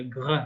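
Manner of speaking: "gr" from the bottom of the larynx; throaty French "gr". Shown as a demonstration. Teacher showing a difficult sound, throaty "gr". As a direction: make the "gr" deep in the throat. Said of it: "It has to come from the".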